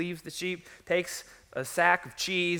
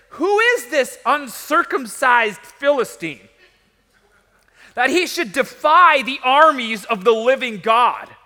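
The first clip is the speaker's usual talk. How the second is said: loud, high outrage with punched words; indignant challenge; 8 semitones higher, 12 dB louder than usual. Acted. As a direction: throw out a defiant challenge to the whole army. Young David challenges the giant, acted.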